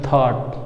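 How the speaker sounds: THOUGHT with a hard aspirated t; Indian-style THOUGHT, no hiss on the th; local Indian pronunciation. Shown as a demonstration. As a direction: say THOUGHT as "thaat", a stop then breath. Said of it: "जैसे हम लोग बोलते हैं".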